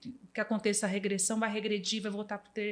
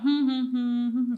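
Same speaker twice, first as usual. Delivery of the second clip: humming; 3 semitones higher, 5 dB louder than usual. Retold or imitated. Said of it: "Aí ela".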